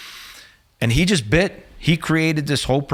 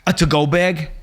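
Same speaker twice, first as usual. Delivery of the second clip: imitated snippy waitress, pitched up and louder; higher, incredulous waitress voice; waitress's retort; 6 semitones higher, 5 dB louder than usual. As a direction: throw it back as a disdainful question. Snarling waitress answers his rude demand.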